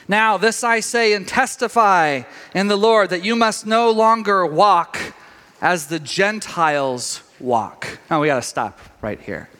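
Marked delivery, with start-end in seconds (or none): 0.1-8.0 slow, solemn reading of the verse; scripture reading. Acted. The preacher reads Ephesians to his church, solemnly. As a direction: read it out like holy writ.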